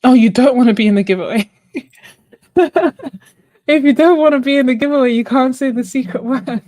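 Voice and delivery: loud, fast, high mock outrage; playful fast exclaim at the chat; excited teasing. Real, not acted. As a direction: tease them, quick and loud. Teasing viewer who refuses entry.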